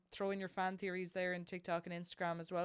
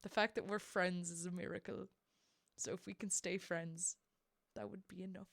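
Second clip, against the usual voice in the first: tender Hamilton quote; 6 dB quieter than usual. Shown as a demonstration. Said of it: "this lovely line".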